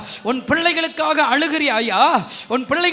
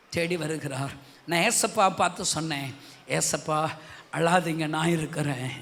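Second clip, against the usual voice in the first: soft tender prayer; 8 semitones lower, 10 dB quieter than usual. Retold or imitated. Quiet tender retold prayer.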